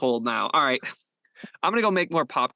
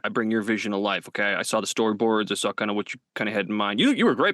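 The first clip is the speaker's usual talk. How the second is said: low reassuring voice; 6 semitones lower than usual. Acted. Smooth director reassuring actor.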